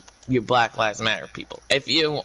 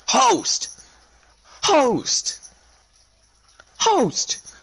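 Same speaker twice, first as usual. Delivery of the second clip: mock jeering shout; 11 semitones higher, much slower than usual. Mocking the jeers white supporters got.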